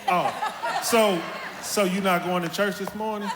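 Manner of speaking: lightly voiced mama, knowing and laughing; mama's loaded question. Son imitating mama's loaded church question, laughing. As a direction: ask it like a statement, mock sweet. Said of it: "Mama would ask you".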